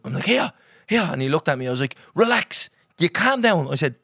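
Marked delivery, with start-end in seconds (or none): 0.2-1.1 high, loud calls across the water; calling out. Retold or imitated. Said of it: "I was calling him". 2.1-3.7 high, loud calming shout; calling out. Retold or imitated. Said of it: "I was calling him".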